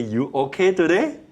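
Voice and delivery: high, gentle rising question; caring check-in. Shown as a demonstration. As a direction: ask kindly, lifting at the end. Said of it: "I say".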